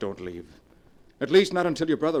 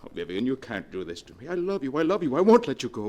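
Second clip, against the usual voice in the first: desperate plea; 4 dB louder than usual. Acted. Husband pleading desperately with wife.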